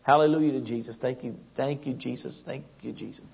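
a lightly voiced holy-roller trailing off into murmured thanks; pious gushing. Preacher imitates a religious person greeting a stranger, gushing then fading. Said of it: "You know".

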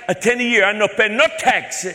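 high, loud, pleading broken English; mock-naive broken-English caller. Same put-on caller voice to scammer.

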